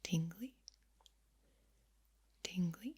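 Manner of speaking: "tingly" with a steep upward swoop at the end; questioning inflection. Shown as a demonstration. Asking listeners if it's tingly, "tingly" rising sharply. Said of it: "Mixing up my tone and inflection".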